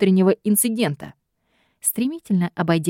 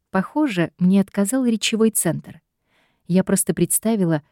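usual speaking voice

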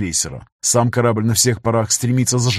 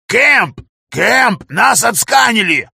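much higher, loud frantic cry; panicked yelling; 11 semitones higher, 6 dB louder, much slower than usual. A narrator's reading. Tech yelling to the crew that they are scanned, panicked shout. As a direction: scream the alarm in terror. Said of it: "он буквально кричит".

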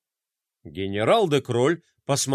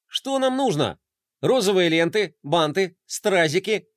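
eager; 4 semitones higher than usual. Acted. Fly eager to help.

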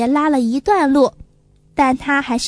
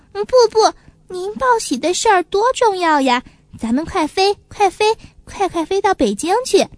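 put-on higher eager child voice; little pigeon insisting; 4 semitones higher than usual. Little pigeon insisting to magpie sister, eager higher child voice. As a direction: refuse rest, hurry her along.

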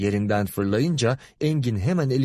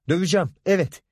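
higher-pitched defiant cry; raised, heated voice; shouting; 6 semitones higher, 3 dB louder, faster than usual. A narrator's reading. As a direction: shout a threat, mildly. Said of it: "diye bağırarak".

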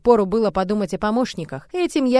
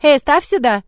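loud, higher call to a servant; raised, bossy shout; ordering; 5 semitones higher, 7 dB louder than usual. A narrator's reading. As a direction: call out a brisk command. Calling out to a servant.

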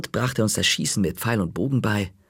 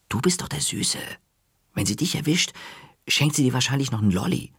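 high, light teasing voice; teasing boy; 5 semitones higher, faster than usual. A narrator's reading. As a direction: tease in a higher boyish voice. Marty teases in dialogue.

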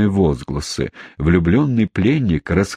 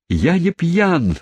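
a much higher, slow wail; wailing yell; 10 semitones higher, slower than usual. A narrator's reading. Fat boy, seized by the collar, wails his denial. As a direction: howl the denial, dragged out. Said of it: "завопил жирный парень".

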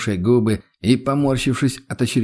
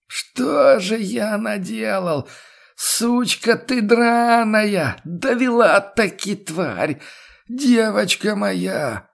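much higher, very slow anguished howl; howling wail; 11 semitones higher, much slower than usual. A narrator's reading. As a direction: wail in drunken grief and rage. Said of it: "и вдруг завыл". (пьяный отчаянный вой, очень высоко и медленно)

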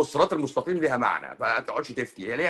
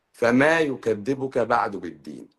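slow Quran recitation; slower than usual. Acted. Quoting a Quranic verse.

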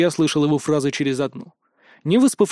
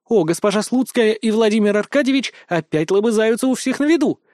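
higher, gleeful teasing announcement; gleeful exclaim; 6 semitones higher than usual. Acted. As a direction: crow it out for all to hear. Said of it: "воскликнула Рита". (радостно и громко, с издёвкой)

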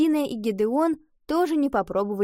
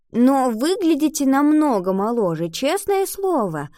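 raised, eager voice; higher, earnest reassurance; hastily making amends; 6 semitones higher, 4 dB louder than usual. A narrator's reading. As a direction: try hard to smooth over a slip. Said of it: "поспешила исправить ситуацию".

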